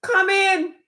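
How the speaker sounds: mock the welcome you are expected to give; sarcastic, syrupy hostess voice; mock sweetness. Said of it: "I'm supposed to be like".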